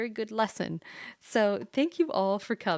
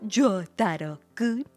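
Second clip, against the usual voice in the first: mock anime shout; 8 dB louder, slower than usual. Shouted anime name, then fading.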